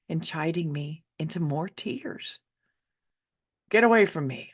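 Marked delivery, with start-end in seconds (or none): 3.7-4.5 angry mother. Acted. Mother snapping at crying child.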